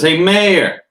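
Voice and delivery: high, loud call for the mayor; prince voice. Acted. Prince Vince calling the mayor at the door, loud high haughty voice. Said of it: "what was the voice I was doing for Prince".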